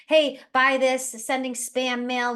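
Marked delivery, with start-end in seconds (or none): 0.1-1.1 slow, louder hard-sell "hey"; pushy salesperson. Retold or imitated. Bad network marketer pitching a stranger, hammed-up pushy. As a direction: shove the product at them, mock pushy. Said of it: "You don't go".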